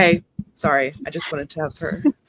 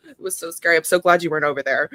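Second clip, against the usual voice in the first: charming gossip; faster than usual. Acted. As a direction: lay on the charm. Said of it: "charm reconnaissance mission".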